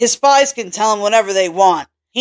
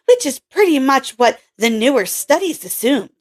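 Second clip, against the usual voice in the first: lightly raised voice for Kelly, a bit curt; a hint of a brusque young scientist; Kelly's voice; 5 semitones higher than usual. Kelly's voice held.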